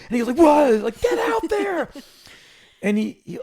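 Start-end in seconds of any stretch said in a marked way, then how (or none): 0.4-0.7 high, loud what; hammed-up startled reply; mock startled what. 1.0-1.9 high, loud bossy command; imitating Sharon barking an order, high; mock stern order. Sharon ordering him on stage.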